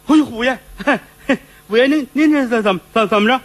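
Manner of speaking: tripping over words before the bully; nervous stammer. Acted.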